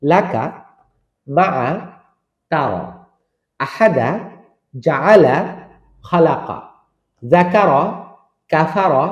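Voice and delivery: each word read crisply with short, quick vowels and a pause between words; quick Quranic recitation. Shown as a demonstration. Teacher reciting the lesson's word list for students to copy. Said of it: "আপনাকে উচ্চারণ করতে হবে কিভাবে?".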